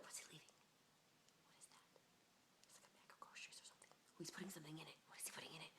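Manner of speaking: hushed curious whisper; whisper, peering out at him. Retold or imitated. Whispering to a friend while watching him through the window.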